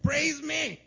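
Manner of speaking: high, loud, hammed-up demand; demanding God. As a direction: play a needy boss god.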